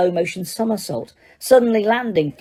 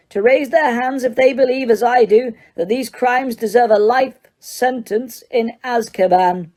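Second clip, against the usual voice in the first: much higher, forceful call to vote; shouting judge; 5 semitones higher than usual. Acted. Judge shouting for the jury's vote. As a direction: demand a life sentence. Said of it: "shouted Mister Crouch".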